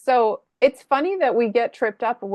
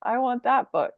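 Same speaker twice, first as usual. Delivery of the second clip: imitated three-year-old; 4 semitones higher than usual. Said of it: "He's like".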